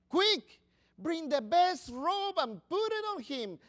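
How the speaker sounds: a father calling out quickly for the robe; urgent father's order. Acted.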